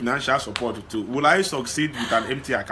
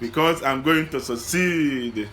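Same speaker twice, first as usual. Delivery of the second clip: slow, steady repeat; slow affirmation; 3 semitones higher, slower than usual. Acted. Man slowly repeating his friend's affirmation. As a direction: echo it slowly and firmly. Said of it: "Say it, you are smiling".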